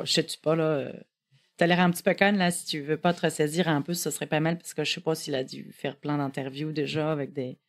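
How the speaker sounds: put-on Quebec accent. Nervous woman's inner voice, in a light Québécois accent. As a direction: lay on the Québec French, joual words and all. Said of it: "Québécois pour Perrine et moi".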